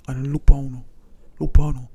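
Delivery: loud scolding. Acted. Father scolding his sons.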